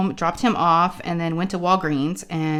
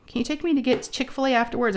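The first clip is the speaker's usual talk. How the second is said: higher, lightly whiny pleading voice; imitating upset kid; 6 semitones higher, faster than usual. Daughter asking mom for a treat, mock upset. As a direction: mimic a child asking through near-tears. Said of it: "upset, almost crying".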